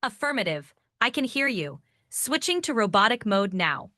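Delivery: lightly voiced robot, even pitch; a hint of robotic announcing. Shown as a demonstration. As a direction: talk a little like a robot, in short separate phrases. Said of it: "Talk like a robot".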